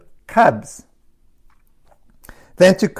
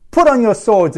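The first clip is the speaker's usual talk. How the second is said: irate command; 4 semitones higher, 3 dB louder than usual. Retold or imitated.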